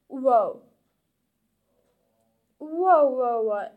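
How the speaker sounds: wow. Acted. Mock-impressed at the prank.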